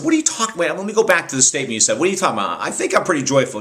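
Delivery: quick mock-defensive retort; retold indignant protest. Host disputes being told he lacks joy, mildly indignant.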